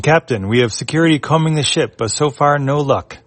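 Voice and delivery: minion voice. Acted. Minion reporting to captain.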